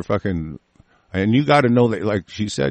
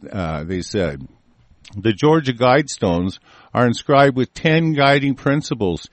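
measured, emphatic article reading; news read-aloud; 2 semitones higher than usual. Real, not acted. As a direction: read the report out clearly, phrase by phrase. Reads a news report aloud.

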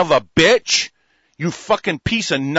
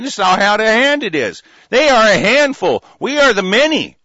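loud, high furious tirade; angry shouting; 4 semitones higher, 5 dB louder than usual. Real, not acted. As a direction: shout each insult at him. Angry rant at a politician.

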